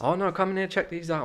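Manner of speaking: Apu impression. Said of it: "trying not to do the Apu thing".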